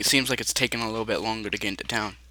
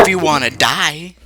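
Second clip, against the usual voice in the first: threat; 5 semitones higher, 9 dB louder than usual. Acted. Threat to the player.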